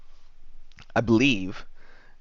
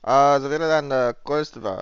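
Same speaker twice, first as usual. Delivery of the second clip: fake German; 3 semitones higher than usual. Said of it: "try speak German again".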